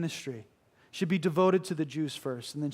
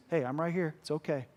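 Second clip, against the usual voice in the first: reassuring; 3 dB quieter than usual. Acted. The Lord reassuring softly.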